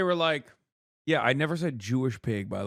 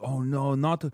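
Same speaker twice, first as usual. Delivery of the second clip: mock dismayed fan; 4 semitones higher, 3 dB louder, slower than usual. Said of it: "They're like".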